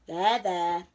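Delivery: a touch of soothing; kindly soothing. A narrator's reading. Owl comforts the frightened monster, kindly. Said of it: "Owl patted him kindly".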